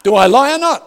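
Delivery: high, loud laughing question. Real, not acted. Laughing after the chocolate joke.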